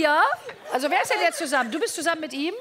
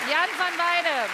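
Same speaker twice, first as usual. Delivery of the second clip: announcer voice; 5 semitones higher, 4 dB louder, much slower than usual. Acted. Introducing the guest to audience.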